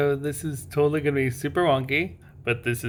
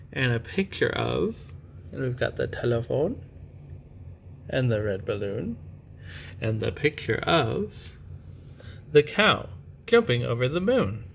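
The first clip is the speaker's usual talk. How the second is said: picture-book reading. Acted. Parent reading a bedtime picture book to a child, storytime voice.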